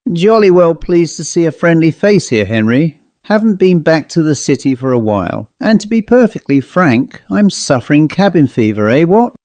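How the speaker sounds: put-on jolly old colonel type, pleased to see you; posh old gentleman. Host John welcoming his friend over port, hearty posh gent.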